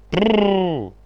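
loud high trilled prrru to halt a horse; horse stopping call. Acted. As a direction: roll the r hard, reining in. Coachman stops the horse.

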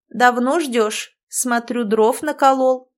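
медленный голос старой ведьмы; спроси неспешно, как старуха; старушечий голос. Acted. Старуха спрашивает Бьорка. (старуха расспрашивает Бьорка, медленно и по-старушечьи)

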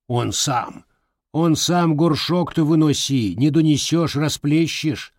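mocking old woman. Grandmother mocking.

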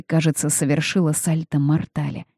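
plain reading voice

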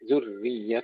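ذرية with a thin, doubled ر; ذرية, its doubled ر said thin, not heavy; pronunciation demo. Shown as a demonstration. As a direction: say ذرية with the ر light and held. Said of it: "ترقيق الراء مع تشديدها".

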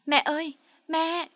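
put-on high, slow child's wail; little boy wailing for his mother, high and slow; child crying. A narrator's reading. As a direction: cry out for mom like a small boy. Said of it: "tiếng cu cậu khóc thét lên".

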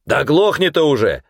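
high loud bark; barked order. A narrator's reading. Big man entering the corridor barking at the prisoner. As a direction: snap at him to shut up. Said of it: "рявкнул вошедший".

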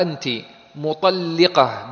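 "مطلقة" slowly, with an i after the doubled lam; kasra on the lam. Shown as a demonstration. Teacher showing students the active participle, "مطلقة" slow with kasra on the lam. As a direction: stretch out "مطلقة", sounding the kasra under the lam. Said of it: "بكسر اللام".

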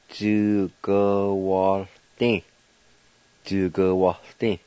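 Djugawaldi with a silent O; careful Cherokee word. Shown as a demonstration. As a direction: say Djugawaldi slowly and clearly. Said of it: "Pronounced like this".

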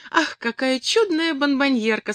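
high, admiring exclamation; savouring with delight. A narrator's reading. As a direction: relish the very name of the gift. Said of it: "видимо, наслаждаясь не только вещью".

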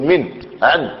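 مِن and عن read as whole words; read as written. Shown as a demonstration. Teacher showing students how particles are read, whole-word pronunciation. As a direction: say من، عن as words, not letter names. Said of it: "تنطق به على هيئة رسمه".

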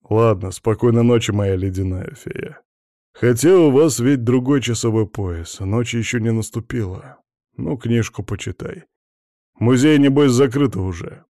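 ironic. Acted. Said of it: "сказал он с иронией".

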